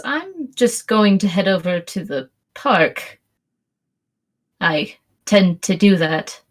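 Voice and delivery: slow, deliberate pacing with pauses; unhurried, pausing as if inviting; left hanging. Acted. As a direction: say it slowly and let it hang. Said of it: "she kinda lets it hang in the air".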